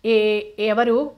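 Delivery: slow, frightened half-awake call; jolted awake, fearful and drawn out; a startled "who's there" from sleep; startled cry. Acted. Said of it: "అంటూ వెర్రి కేక వేసింది".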